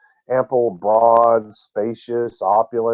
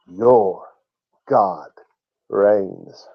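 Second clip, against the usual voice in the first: one word at a time; long pauses between "Your", "God" and "reigns"; measured proclamation; 4 semitones lower, much slower than usual. Real, not acted. Preacher telling the Jews' good news, measured. Key line delivered word by word.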